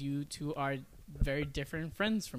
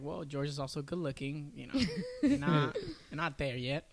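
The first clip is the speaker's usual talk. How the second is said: retold teasing; slower than usual. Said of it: "I proceeded to say".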